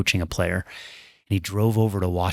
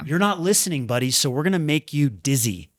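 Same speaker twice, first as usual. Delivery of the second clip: higher-pitched imagined voice of the body; mock scolding, pitched up; body's scolding; 5 semitones higher than usual. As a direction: lightly voice a body telling off its owner. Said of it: "my body said".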